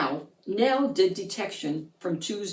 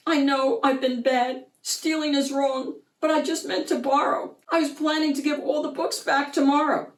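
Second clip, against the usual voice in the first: pleading thief; 6 semitones higher than usual. Acted. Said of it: "he sniffled".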